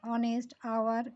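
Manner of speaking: slow ऑनेस्ट, आवर, each starting on a vowel; vowel-like pronunciation. Shown as a demonstration. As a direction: say ऑनेस्ट and आवर slowly with the H silent. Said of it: "इसका उच्चारण vowel जैसा है".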